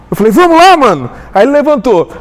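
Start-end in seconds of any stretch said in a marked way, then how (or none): 0.3-1.1 retold angry urging. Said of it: "eu levantei já brabo".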